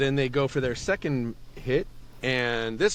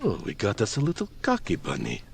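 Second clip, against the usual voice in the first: low sneering taunt; lightly voiced smug brute; smug giant; 4 semitones lower, faster than usual. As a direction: belittle the cocky little bunny. Jorn sneers at bunny.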